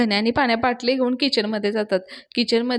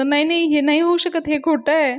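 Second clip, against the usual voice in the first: shocked; 4 semitones higher than usual. Retold or imitated. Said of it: "धक्का बसल्यासारखाच करायला लागतो".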